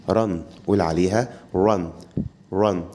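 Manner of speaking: «رن» slow, lips rounded; English R. Shown as a demonstration. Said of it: "ما تقولش".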